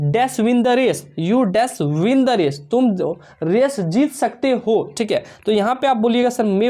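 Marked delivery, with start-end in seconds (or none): 0.1-2.6 words drawn out and spaced; slow dictation read. Shown as a demonstration. Teacher to students, reading the example slowly.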